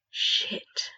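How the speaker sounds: breathy unvoiced curse; breathed. A narrator's reading. Ron seeing the Boggart, breathed. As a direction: breathe it out in shock. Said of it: "he breathed".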